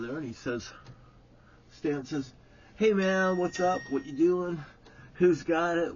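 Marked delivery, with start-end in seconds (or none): 2.8-5.9 higher, louder, breezy hey-man voice; Stan's lively greeting. Retold or imitated. Stan hailing the boys at the log, higher and louder. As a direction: call out casually to the boys.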